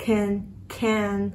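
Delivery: "can" with open "ae" vowel; English "can", vowel between a and e. Shown as a demonstration. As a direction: say "can" as "kæn". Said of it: "Âm này là âm a e ha".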